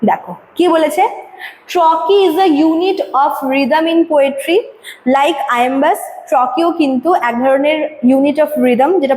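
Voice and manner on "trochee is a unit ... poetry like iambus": slow, deliberate textbook read-out; slow reading aloud. Acted. Teacher reading the definition to students, slow and deliberate. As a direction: read the definition slowly for the class.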